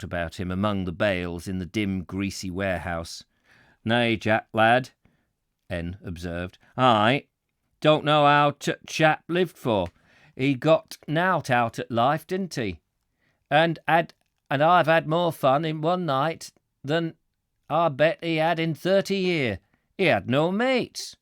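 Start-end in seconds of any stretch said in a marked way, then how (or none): 3.8-4.9 broad Yorkshire warehouseman, a bit louder; terrible Yorkshire accent. Acted. Warehouseman chatting to his friend Jack, Yorkshire accent. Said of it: "I'm doing a terrible accent". 6.8-21.2 higher, emphatic Yorkshire warehouseman; terrible Yorkshire accent. Acted. Warehouseman judging his late boss to Jack, terrible Yorkshire accent. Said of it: "I'm doing a terrible accent".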